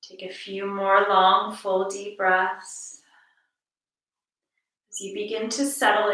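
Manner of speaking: calm, measured meditation voice with long pauses; guided meditation. Acted. Teacher guiding listeners to notice each breath, calm guided meditation. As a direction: lead listeners gently through the breath, unhurried.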